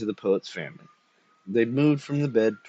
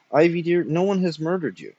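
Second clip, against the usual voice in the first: higher-pitched, pleading wife; gentle protest, pitched up; placating wife; 7 semitones higher than usual. A narrator's reading. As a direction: soothe him in a lightly voiced wife's tone. Wife soothing her raving husband.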